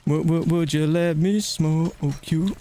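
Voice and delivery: drawn-out, slow teasing taunt; slow put-on catchphrase voice. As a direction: stretch it out like a smooth-talking catchphrase. Same catchphrase repeated.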